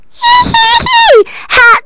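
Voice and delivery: high, loud witchy cackle; witch cackle. A narrator's reading. Witch cackles gleefully, finding her hat. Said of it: "said the witch".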